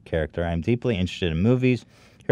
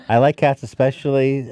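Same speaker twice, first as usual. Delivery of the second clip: high laughing, louder; 5 semitones higher, 4 dB louder than usual. Real, not acted. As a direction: laugh through the words. Laughing while reading slide.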